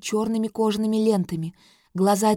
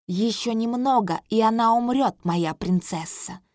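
mocking. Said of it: "насмешливо выдыхает король Тамур".

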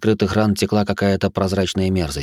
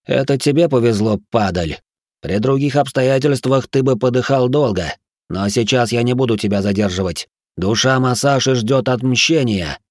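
angry; 3 semitones higher than usual. Acted. Prince condemns dying monster.

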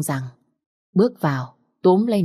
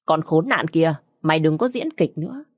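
shouting. Acted. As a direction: yell her down and demand the truth. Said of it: "quát lớn".

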